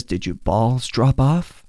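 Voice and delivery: slow, taunting villain voice; drawn-out mocking sneer; Joker. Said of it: "And he says".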